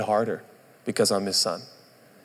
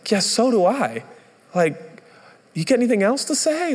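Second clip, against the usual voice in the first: much higher, snappy sarcastic comeback; sarcastic retort; 12 semitones higher than usual. Retold or imitated. New pastor fires back at a congregant, sarcastic. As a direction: throw it back with a bite of sarcasm.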